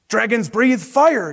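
slow, high storybook yell; coach's yell. Acted. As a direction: call it to the class like a coach, slowly. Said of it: "yelled the coach".

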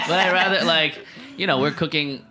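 talking through laughter; words broken by laughter; laughing. Real, not acted. Laughing while continuing.

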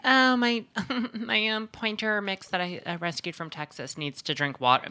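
high-pitched mock rich dog owner; hammed-up high-class pet owner; high-class Brooklynite. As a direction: mimic a precious Brooklynite, voice way up. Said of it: "high class Brooklynites owning brownstone".

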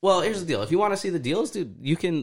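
high, loud hyped pitch; wrestling promo. Acted. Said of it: "You gotta cut the promo".

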